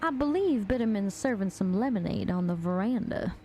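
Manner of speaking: lilting Southern belle accent, lightly put on; Southern accent attempt. Shown as a demonstration. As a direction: try a genteel Southern accent. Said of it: "I don't think I can do it very good".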